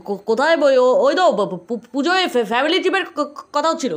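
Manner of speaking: stuttering, caught out; flustered stammer covering a lie; nervous stammer. Acted. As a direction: trip over every word. Caught lying to mother.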